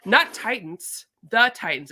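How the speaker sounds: very slow and drawn out, falling at the end; drawn-out exasperated repeat to a confused clerk. Retold or imitated. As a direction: stretch every syllable, exasperated.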